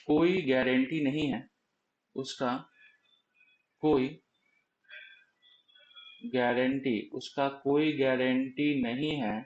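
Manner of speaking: slow, spaced out words with long pauses; slow explaining. Shown as a demonstration. Teacher re-explaining the version guarantee slowly. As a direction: lay it out one piece at a time. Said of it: "मैं फिर से एक बार समझाने की कोशिश".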